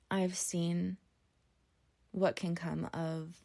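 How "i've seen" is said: whispered. Real, not acted. Hushed aside mid-thought.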